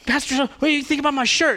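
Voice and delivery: put-on a kid tugging at the pastor's sleeve, eager and high; child voice. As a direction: play a little kid asking the pastor. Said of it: "one of them will come up and be like".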